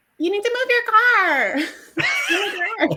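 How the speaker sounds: Boston accent attempting Valley Girl voice, very high. Retelling what a man said in his impression, Boston accent doing Valley Girl. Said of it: "like is a Boston accent trying to do that".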